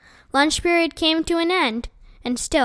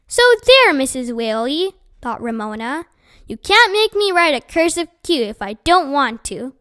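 defiant; 3 dB louder than usual. Acted. Defiant thought at teacher.

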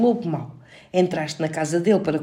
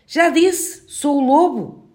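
higher, slow little wolf; a patient young wolf insisting; small wolf voice; 7 semitones higher, 4 dB louder, much slower than usual. A narrator's reading. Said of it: "voltou a responder a voz de lobo".

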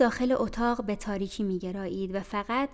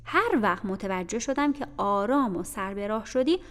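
stern aunt lecturing; 5 dB louder than usual. Acted. Mrs Reed lecturing Jane.

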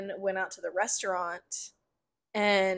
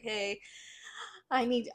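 whispering on the phone; 8 dB quieter than usual. Retold or imitated. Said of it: "I'm actually whispering on the phone".

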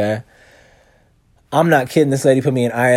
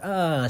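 yawn; 5 semitones higher, 5 dB quieter than usual. Retold or imitated. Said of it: "I stretched and yawned".

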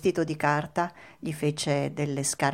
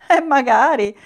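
higher, loud puppet exclamation; eager wishing; 8 semitones higher, 10 dB louder than usual. A narrator's reading. Pinocchio tempted by the cat's offer, eager high exclamation. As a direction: jump at the offer.

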